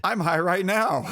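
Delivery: stoner. Pretend. Joking he is high.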